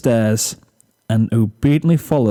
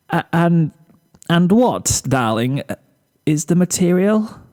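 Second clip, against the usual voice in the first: softened tone; 5 semitones higher than usual. Acted. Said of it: "soften her tone out of pity".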